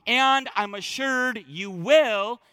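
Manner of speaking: slow, assured and confident; reassuring voicing. Shown as a demonstration. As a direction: read it as a sure promise. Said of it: "is the voicing".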